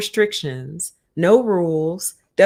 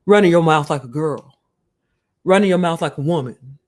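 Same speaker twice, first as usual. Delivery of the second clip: a lightly voiced sneering pundit; mild mock of a pundit's put-down; mocking Kwame; 2 semitones lower than usual. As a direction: scoff at the men like a talk-show host. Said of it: "he's like".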